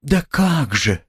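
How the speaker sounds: high and drawn out, pleading; plaintive drawl. A narrator's reading. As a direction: stretch it out plaintively. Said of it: "протянула Соня жалобно".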